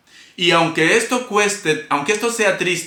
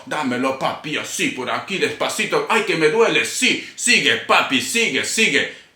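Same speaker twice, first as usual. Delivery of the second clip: mock reggaeton lyric; 2 semitones lower than usual. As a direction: parody modern reggaeton lyrics, hushed. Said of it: "de la bichota".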